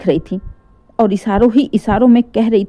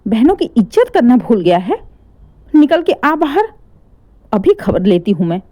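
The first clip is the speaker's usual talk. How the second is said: angry yelling. Acted. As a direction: yell him out of his room in fury. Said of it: "इतना तेज-तेज चिल्ला रही थीं".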